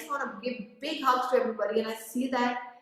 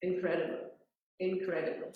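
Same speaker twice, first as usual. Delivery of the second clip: emotional; 2 semitones lower, 6 dB quieter than usual. Real, not acted. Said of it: "I'm just getting emotional".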